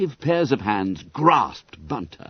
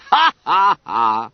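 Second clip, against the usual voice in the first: guffaw; 5 semitones higher, 7 dB louder, slower than usual. A narrator's reading. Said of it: "they all guffawed".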